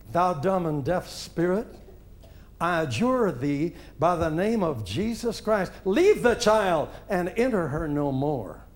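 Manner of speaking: measured, formal command to a spirit; grave, deliberate, without ranting; solemn exorcism prayer. Retold or imitated. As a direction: quote a minister firmly adjuring a spirit. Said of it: "When he got us quiet, he said".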